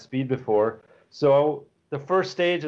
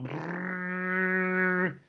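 put-on kid's lip-buzz engine sound; engine noise imitation; 5 semitones higher, 5 dB quieter than usual. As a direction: buzz your lips like a toy car. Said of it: "she's sitting in the car going".

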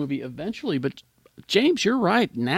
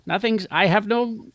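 Skeletor voice; 8 semitones higher than usual. Acted. Skeletor bit, no jaw joke.

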